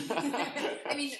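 gasping laugh. Real, not acted. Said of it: "gasp and laugh".

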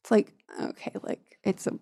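soft unvoiced whisper; whispered aside. Real, not acted. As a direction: mutter it under your breath. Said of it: "aside whisper".

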